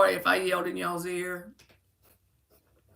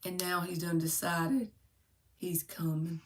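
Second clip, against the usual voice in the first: whispered news; 4 semitones lower, 8 dB quieter than usual. Real, not acted. Confides viewer news.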